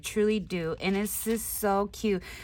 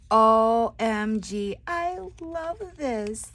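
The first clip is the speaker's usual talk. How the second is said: slow gush; 4 dB louder, much slower than usual. Real, not acted. Crafter finding a balloon inside, slow gush. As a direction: savour each letter.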